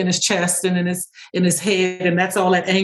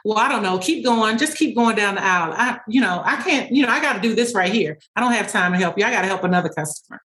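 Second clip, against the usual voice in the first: brushing him off, quick and offhand; a hint of a rude clerk who can't be bothered; dismissive store worker; 2 semitones higher, faster than usual. Worker brushing off a customer in role play, offhand and quick. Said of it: "The more I was dismissive".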